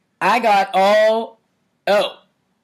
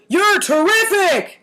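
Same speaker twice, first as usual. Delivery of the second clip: high, slow shouted cheer; yelled; 9 semitones higher than usual. A narrator's reading. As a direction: cheer it out like a whole zoo. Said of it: "yelled the whole zoo".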